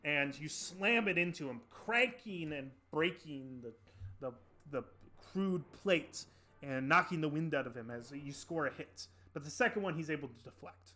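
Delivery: emphatic combat narration; game master narration. Acted. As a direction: relish the impact of each blow.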